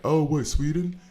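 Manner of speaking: high, confused mock American; mocking clueless American. Streamer mocks Americans confusing Switzerland with Sweden, high mock confusion. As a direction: ape a tourist mixing up countries. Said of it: "they're like".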